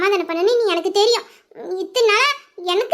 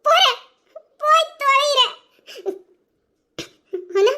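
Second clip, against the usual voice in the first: hurt retort; 3 semitones higher than usual. Acted. Hurt wife answers being thrown out.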